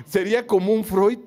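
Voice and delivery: chuckling as he repeats it; amused laugh on the words. Real, not acted.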